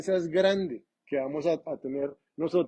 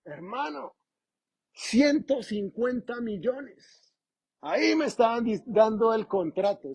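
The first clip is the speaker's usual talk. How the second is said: slow Puerto Rican drawl, higher pitch; Puerto Rican accent; 4 semitones higher than usual. Retold or imitated. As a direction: imitate a Puerto Rican preacher. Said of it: "con el acento y toda la cosa".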